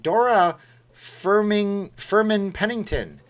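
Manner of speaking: booming, drawn-out name call; grand announcer voice. Pretend. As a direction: announce it like royalty. Reading a donor's name grandly.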